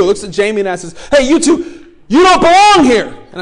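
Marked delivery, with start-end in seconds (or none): 1.1-3.1 high, loud order to leave; stern shout. Retold or imitated. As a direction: bark it out much higher and louder. Guard ordering them out.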